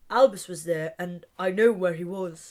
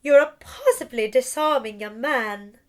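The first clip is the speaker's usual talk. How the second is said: a hint of a posh voice, a touch louder; 4 dB louder than usual. Delphi teasing Albus after the duel, lightly posh. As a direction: lightly put on a posh lilt. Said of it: "In a posh voice".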